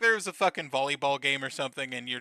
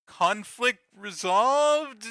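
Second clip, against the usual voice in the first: very slow, raised, questioning; drawn-out mock-uncertain verdict, higher and louder; doubtful conclusion; 5 semitones higher, 4 dB louder, much slower than usual. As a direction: stretch it out into an unsure question. Doubtful summing-up of the plot.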